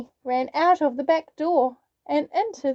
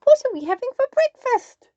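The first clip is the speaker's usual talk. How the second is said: wolf voice; 12 semitones higher, 6 dB louder, faster than usual. A narrator's reading. Wolf asks hungrily.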